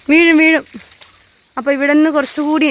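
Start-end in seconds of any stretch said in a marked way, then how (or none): 0.1-0.6 higher, louder alarm call; sharp warning. Real, not acted. Mother warning her child she will fall, sharp and loud. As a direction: stop her before she falls.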